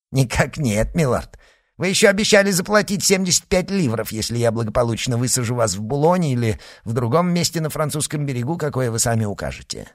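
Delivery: fast put-on Irish accent. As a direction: fake Irish brogue, quick. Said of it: "имитируя ирландский акцент".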